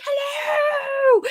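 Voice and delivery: full-bore hello. Shown as a demonstration. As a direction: burst in with a big hello. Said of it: "came in full bore".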